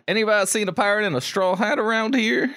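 put-on Bellamy's accent. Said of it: "Dude, Bellamy? Hell yeah".

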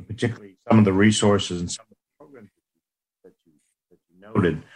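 dropping call audio; buzzy glitchy call audio. Real, not acted. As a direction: voice breaking up on the call. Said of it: "You're breaking up".

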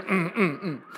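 short, quiet mock grunts; little closed-mouth "mm" at each elbow jab; comic muffled rib-poke grunts; grunts of being nudged. Imitating spouses elbowed in the ribs.

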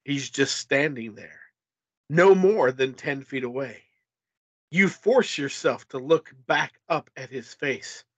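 measured, dramatic gamebook reading; story narration. A narrator's reading. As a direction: narrate a suspenseful adventure tale. Reads gamebook narration aloud.

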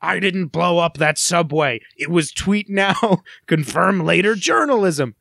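slow, drawn-out film protest; hunted fugitive. Pretend. Fugitive denying he blew up a subway, melodramatic. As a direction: ham up the innocence plea. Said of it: "One episode will just be".

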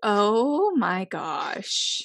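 slow, breathless after laughter; after laughing hard. Real, not acted. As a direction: gasp it out spent from laughing. Recovering from laughter.

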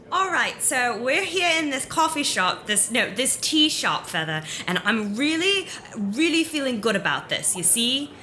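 lightly voiced character, eager; a hint of a made-up voice, excited about her idea; talking to a bird companion; shifting put-on voice. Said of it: "the voice is not going to be anything in particular".

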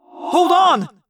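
high, loud echoing call; shouted last-second warning; urgent shout. Acted. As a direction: brace the crew for impact. Pilot shouts before impact.

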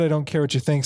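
drawled mock author's note; mock snotty reread. Shown as a demonstration. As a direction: sneer it like a bratty author. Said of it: "I said, I said".

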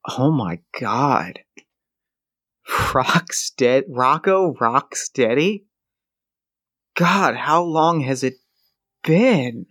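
drawn-out disbelief at seeing him; surprised old friend. Acted. Johnny opening the door to Rocco, slow amazed greeting.

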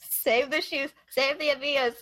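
hammed-up pleading; mock plea. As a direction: echo the joke as a playful high plea.

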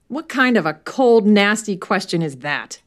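offended outburst. Acted. Heir insulted by the inspector, mild indignation. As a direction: throw the question back at him.

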